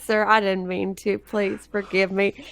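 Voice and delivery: put-on apologetic, lightly British-accented character. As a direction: beg pardon with a hint of a British accent. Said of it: "I don't know why she just got British".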